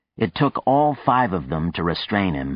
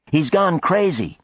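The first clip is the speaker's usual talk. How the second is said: alarmed; 11 semitones higher, 4 dB louder than usual. A narrator's reading. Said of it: "alarmed crew member".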